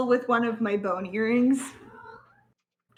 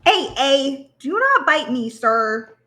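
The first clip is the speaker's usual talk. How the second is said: firm in-character warning; 3 semitones higher, 9 dB louder, much slower than usual. Acted. Player speaks in character, firm.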